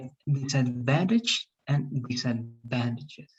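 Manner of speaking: disadvantage and disadvantages, slowly; slow model pair. Shown as a demonstration. Teacher modelling singular and plural, slowly. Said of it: "singular and plural".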